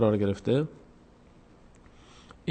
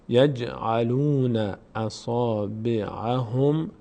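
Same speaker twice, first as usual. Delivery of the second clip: slow, drawn-out Quranic recitation; much slower than usual. Shown as a demonstration. Tutor reciting the phrase slowly for students. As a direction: intone the phrase, lengthening every vowel. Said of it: "teacher reciting the verse slowly".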